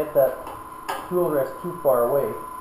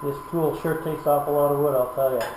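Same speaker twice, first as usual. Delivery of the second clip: loud; 5 dB louder than usual. Real, not acted. Talking over a running lathe.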